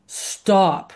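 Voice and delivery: firm, drawn-out command; a weighty order to a dog; baritone alpha command. Shown as a demonstration. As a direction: say it like the one in charge. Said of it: "you need a really baritone alpha male".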